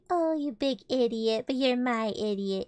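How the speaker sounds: drawn-out fond mock insult; affectionate chiding, slowed at the start; loving teasing. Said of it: "the same form of loving words".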